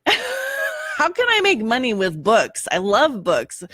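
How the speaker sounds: put-on high, wondering childlike questions; young dreamer voice. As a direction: imitate your younger self dreaming. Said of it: "I always growing up was like".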